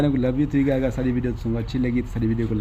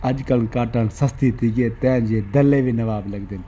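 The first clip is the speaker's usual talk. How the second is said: slow poem recital. Retold or imitated. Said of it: "بہوں بدماشی والا شعر".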